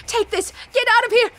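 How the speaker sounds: loud, high warning cry; urgent shout. Acted. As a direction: yell at him to run. Urging ally to flee.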